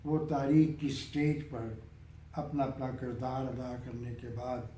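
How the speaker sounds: measured verse, phrase by phrase, fading at the close; poem recitation. Acted. Poet reciting a nazm on death's game, measured recitation. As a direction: recite with pauses, letting the last line drop away.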